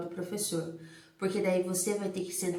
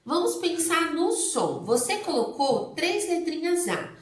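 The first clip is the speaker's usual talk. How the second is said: teacher encouraging; 3 semitones higher, 4 dB louder than usual. Shown as a demonstration. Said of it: "Então você fala assim".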